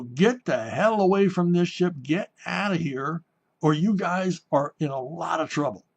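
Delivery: stern officer's order. Retold or imitated. Officer ordering drunks away from his ship, mock stern warning. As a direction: imitate an officer warning off troublemakers.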